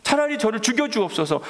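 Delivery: mock aggrieved complaint. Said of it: "똑같이 요나처럼 기도하고".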